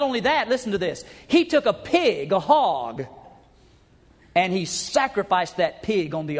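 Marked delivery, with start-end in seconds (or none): none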